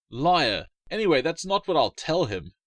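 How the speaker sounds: put-on a light touch of a smug boy; lightly voiced cheeky little boy; smug little brother. A narrator's reading. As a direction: tease her back, lightly voiced. Wally answers sister.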